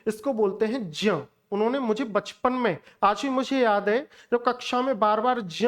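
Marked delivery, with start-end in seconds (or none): 0.9-1.1 ज्ञ spoken as the correct teacher's model; correct pronunciation. Shown as a demonstration. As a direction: say ज्ञ carefully, the right way. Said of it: "ये ज्ञ ज्ञानी नहीं है".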